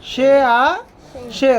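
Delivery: "সে আসে" drawn out very slowly, lingering on the final এ of "আসে"; slow it right down so the last vowel of "আসে" rings; stretched ending. Shown as a demonstration. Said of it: "লাস্টের সাউন্ডটা কি আসতেছে". ("আসে"-র শেষ এ ধ্বনি টেনে খুব ধীরে বলা)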